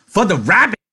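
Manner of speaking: very high, loud, gleeful; excited shout. A narrator's reading. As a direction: burst out like a delighted child. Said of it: "Lenny shouted".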